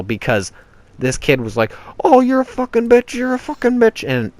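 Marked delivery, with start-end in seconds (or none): 2.0-4.1 very high, loud mocking falsetto; squeaky kid imitation. Mocking the kid who kept insulting him, squeaky imitation. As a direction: mimic a bratty kid's shrieked insults.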